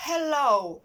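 "Hello" with a barely audible h; faint h demo. Shown as a demonstration. Teacher shows pupils a nearly silent h in "Hello". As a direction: start "Hello" on a tiny breath. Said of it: "Його наче майже не чутно".

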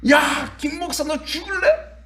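high laughing yell, slowed, threatening a fellow pastor; hammed-up threat shouted across the pitch; mock angry shout. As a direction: yell it as a hot-headed pastor half laughing. Pastors swearing at soccer match.

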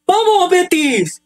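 drawn-out, high victory cry; slow triumphant cheer. Real, not acted. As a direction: stretch the cheer out, high and elated. Celebrating goal for Betis.

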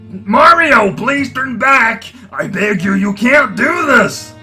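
pleading. Acted. Bowser begs Mario to turn back.

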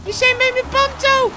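slow, high, loud exclamation; surprised discovery. Acted. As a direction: cry out as you spot something familiar. Sudden happy discovery.

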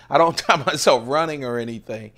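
retelling the running joke, laughing; laughing repeat. Shown as a demonstration. To viewers about not timing his runs, laughing.

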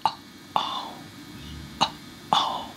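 mouthed, voiceless Uh-oh; just breathe the shape of Uh-oh; whispered Uh-oh, no voice; silent uh-oh. Shown as a demonstration. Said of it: "Now say that silently".

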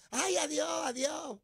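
high, hammed-up beauty queen waving goodbye; mock beauty queen farewell. Mocking the mayor as a beauty queen, high mock farewell. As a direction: camp it up like a pageant queen on a float. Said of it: "como reina de belleza diciendo adiós".

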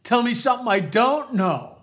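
loud, mocking "duh" to Grandpa; sarcastic kid. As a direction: act a kid who knows it all already. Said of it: "Kid says".

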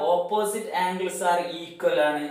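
"opposite angles are equal" said slowly and deliberately; slow it down so they can copy it; teacher dictating "opposite angles are equal" slowly for notebooks; slow dictation. Shown as a demonstration. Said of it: "നോട്ട്ബുക്കിൽ എഴുതിയെടുക്കണം".

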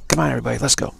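urging man in short, punchy bursts; male pep talk. Acted. Man rallying everybody to shake off fear, pep talk. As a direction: chivvy the frightened along. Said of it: "you try that male type of thing".

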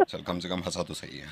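slow, quiet words through a real laugh. Real, not acted. Prankster laughs softly as the stranger finally laughs. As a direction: let the laugh leak through, slowly.

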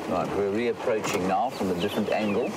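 talking while driving over bumps; on a bumpy road. Real, not acted. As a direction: voice jolted by bumps. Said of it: "Excuse the bumps".

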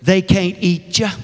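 a hint of Deep South folksiness; deep South mother-in-law. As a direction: quote her in homespun Southern speech. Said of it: "interpretation for her colloquial expressions".

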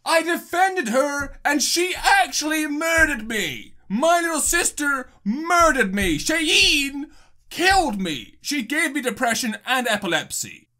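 frustrated and mad. Real, not acted. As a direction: protest the betrayal, dragging the words. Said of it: "I'm incredibly frustrated and mad".

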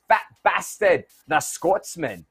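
playful attempt at a Scottish accent; a hint of mock Scottish. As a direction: put on a light Scottish accent. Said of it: "was that a good Scottish accent?".

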